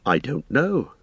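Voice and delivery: a touch of worry breaking in; sudden anxiety. Acted. Frodo realises his friend is missing, sudden anxiety. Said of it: "said Frodo with sudden anxiety".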